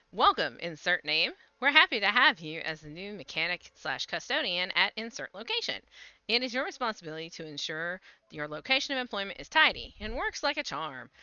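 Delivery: reading a corporate memo; formal read. Acted. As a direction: stiff announcement read. Reads in-game orientation text.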